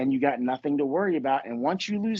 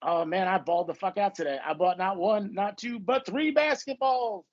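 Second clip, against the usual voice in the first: mock baller; 4 semitones higher than usual. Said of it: "I'd be like".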